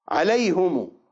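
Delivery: عليهم with a long u added at the end, alayhumu; variant reading. Shown as a demonstration. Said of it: "عليهم بالضمة". (عليهم بصلة الميم بالواو)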